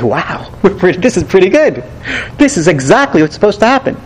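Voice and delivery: the prophet delighting that it worked; gleeful prophet. Pretend. Teacher voicing the prophet pleased at Nineveh's repentance, mildly excited. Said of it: "we'd say".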